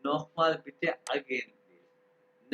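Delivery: नोह माल बिटे drawn out word by word; very slow. Shown as a demonstration. Teacher repeats the phrase very slowly for the students. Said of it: "खे की आवाज़ निकाली".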